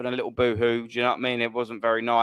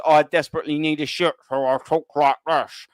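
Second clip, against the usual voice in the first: mocking Rory. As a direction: lightly send up the way Rory talks. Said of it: "The Rory talks".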